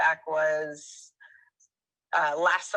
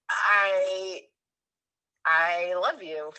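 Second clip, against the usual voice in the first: tearful; much slower than usual. Retold or imitated. Moved by his gentle response.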